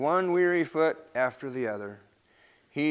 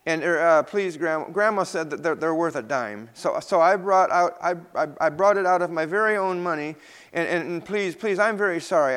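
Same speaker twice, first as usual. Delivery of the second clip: put-on stammering, higher little boy confessing; nervous child; 3 semitones higher, 4 dB louder than usual. Peter confesses to Missus Green, a lightly voiced stammering child. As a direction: stumble over every word, ashamed.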